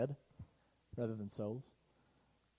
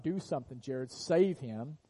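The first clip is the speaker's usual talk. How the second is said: retold plea; 7 dB louder, slower than usual. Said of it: "she's like".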